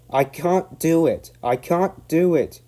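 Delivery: high, loud, slow panting; panting despair. Acted. James losing steam on the hill, panting. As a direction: gasp it out, exhausted. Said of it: "he panted".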